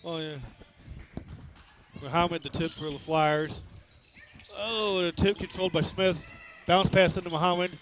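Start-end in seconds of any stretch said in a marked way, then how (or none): 2.0-7.7 brisk live game call; play-by-play. Real, not acted. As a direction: call the action as it happens.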